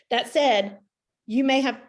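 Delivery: talking around hair in her mouth; words caught on a strand of hair. Real, not acted. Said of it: "sorry, I have hair in my mouth".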